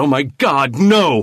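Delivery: slow, high, stretched-out, drawn-out shout. Sheriff Jack Carver bounds off the table, shouting. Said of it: "he shouted".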